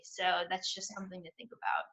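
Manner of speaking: soft, breathy whisper of a closing thought; whispered aside. Real, not acted. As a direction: drop to a whisper.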